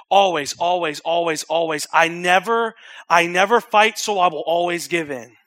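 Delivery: loud, pressing repetition; insistent inner voice. Acted. Preacher acting out defeated self-talk, loud and pressing. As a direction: pound each always in.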